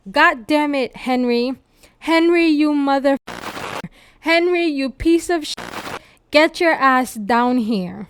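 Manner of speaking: screaming. Retold or imitated. Alex outside Henry's castle yelling for him, a mock yell. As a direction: call him out, half-acted shouting up at a window.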